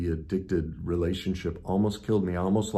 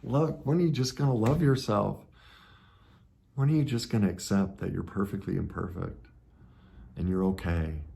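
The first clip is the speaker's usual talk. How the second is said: gentle inner voice; 2 semitones higher than usual. Retold or imitated. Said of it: "prick in the side to say".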